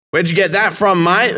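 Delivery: high-pitched tough tradie; mock tradie asking; Aussie tradie voice. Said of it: "And he goes".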